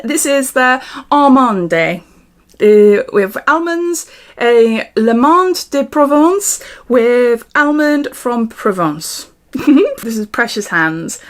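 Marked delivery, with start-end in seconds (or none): 0.0-9.3 bad French accent. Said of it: "I'll stop with the French bad accent".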